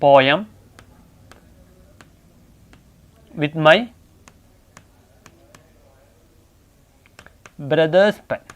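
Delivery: word by word, long pauses between; slow dictation. Real, not acted. Teacher writing out an example sentence for class, slow dictation. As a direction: dictate it in small pieces, waiting after each.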